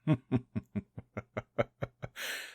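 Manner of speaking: a long amused laugh at the captive; drawn-out gloating chuckle; mocking villain laugh. Villain mocks captive's question.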